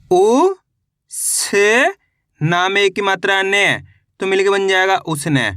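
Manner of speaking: put-on patient teacher reading to children; syllable drill. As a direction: spell each letter, then blend the word.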